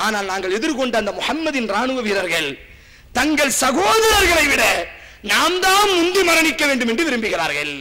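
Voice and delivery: preacher thunders the soldier's answer to the queen; impassioned retold speech. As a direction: proclaim the enemy's secret with fervor. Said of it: "ராணிக்கு சொன்ன வார்த்தை".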